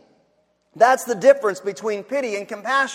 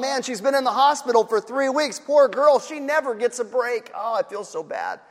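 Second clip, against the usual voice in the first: mock pity. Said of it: "pity would say".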